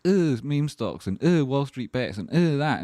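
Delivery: a light parody of contempt; dismissive sneer. Retold or imitated. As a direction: sneer like a snobby pundit. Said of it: "stop being like".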